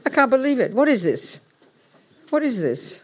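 indignant organizer losing patience; getting angry. Real, not acted. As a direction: let the irritation rise as you ask. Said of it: "I'm getting angrier by the minute".

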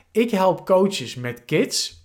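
reading a slogan slowly; slow statement read. Shown as a demonstration. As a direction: spell out the tagline with care. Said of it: "mijn positionering ... statement ... is".

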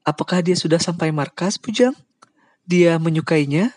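high hopeful mother's question; eager to hear of her son; Aunt Kim asking eagerly. Acted. Aunt Kim eagerly asking about her son. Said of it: "Bibi Kim ikut bertanya".

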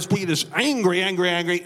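mock angry rumbling babble; imitated angry voice. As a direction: imitate an angry voice over a loudspeaker. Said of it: "And the voice goes".

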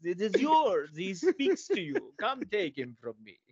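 a hint of a sly old peddler; shady dog seller. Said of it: "gypsy dog seller voiced".

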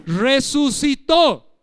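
Resucitó with the last syllable drawn out slow; stress on the O. Shown as a demonstration. Preacher teaching the congregation grammar, slow stressed Resucitó. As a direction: lean on the final O of Resucitó, slowly. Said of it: "con acento en la O".

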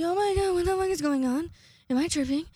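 high, loud astonished outburst; hammed-up starstruck disbelief; mock amazement. Fan spotting the band next door, loudly amazed. Imagines seeing the band outside.

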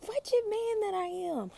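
anguished Paul. Retold or imitated. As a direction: cry it out in despair. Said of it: "He's like".

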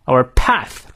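"path" stressed after a light "our". Shown as a demonstration. Teacher marking sentence stress, "path" stressed. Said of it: "our path重读".

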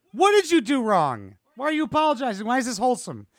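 high-pitched incredulous questions; exasperated heckling. Real, not acted. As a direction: heckle him for apologizing. Heckling a man who is apologizing.

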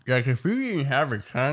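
talking as if without a tongue; mock tongueless speech. Shown as a demonstration. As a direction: garble "didn't have a tongue" with the tongue held still. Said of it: "can't talk without your tongue".

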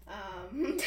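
ordinary talk

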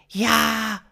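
high, loud alien voice; alien stranger. Acted. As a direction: answer in a high-pitched alien call. Alien answers.

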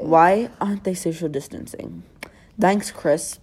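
reading aloud in mock British; British accent. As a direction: put on a British accent to read a post. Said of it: "read everything on Instagram in a British accent".

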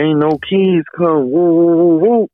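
mocking Marvin. Marvin mocking with woo sounds.

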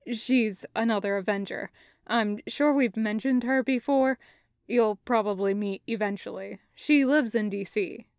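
low, matter-of-fact explanation; composed Kravitz. Acted. Kravitz telling Taco about another Avenger, composed.

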